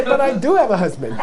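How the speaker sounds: high, play-acted insistence; mock protest. Friend insists to teacher she has a husband, mock protesting. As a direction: object with pitch jumping up.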